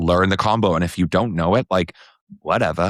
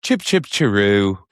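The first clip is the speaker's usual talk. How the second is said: mock British accent. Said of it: "our best British sayings".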